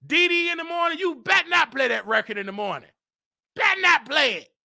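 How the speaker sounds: yelled warning; calling out the DJ. Real, not acted. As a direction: call him out, demanding. Calling out to radio DJ.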